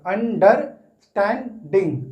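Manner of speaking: "अंडरस्टैंडिंग" in slow, separated chunks; syllable by syllable. Shown as a demonstration. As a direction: spell out the sounds of "अंडरस्टैंडिंग" one syllable at a time. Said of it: "अलग-अलग तोड़कर". ("अंडरस्टैंडिंग" का हर syllable अलग, धीरे)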